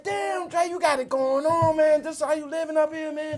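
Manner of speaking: lightly high flattering hype; showing off. Retold or imitated. Complimenting Dre's office, lightly high showing-off voice. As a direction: talk him up, a little high and over-friendly. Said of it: "and I'm talking like that".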